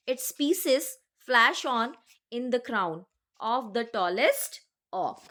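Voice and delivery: slow, measured reading of verse; poem recitation. Acted. Teacher reading a poem extract to the class, slow recitation. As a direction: read each line slowly and deliberately, like a recitation.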